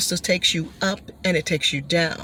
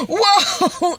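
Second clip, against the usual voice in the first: mock thrilled whoa; 10 semitones higher than usual. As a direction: let out a thrilled whoa as the car swoops. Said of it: "you go".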